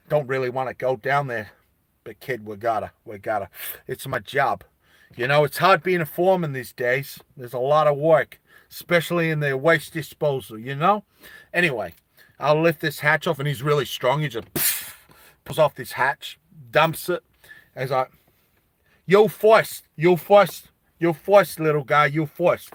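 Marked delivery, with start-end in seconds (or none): 0.1-13.4 weary foreman. Acted. Reluctant foreman at the hatch. 19.1-22.7 insistent foreman. Acted. Foreman urges the kid down.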